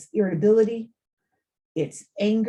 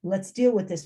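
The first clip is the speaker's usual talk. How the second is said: gentle calming; 2 semitones higher than usual. Shown as a demonstration. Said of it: "Not in a dismissive way".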